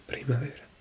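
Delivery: whispering the word primavera to herself; whispered repeat. Shown as a demonstration. Learner whispering an app word back, hushed. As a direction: breathe out Primavera without voice.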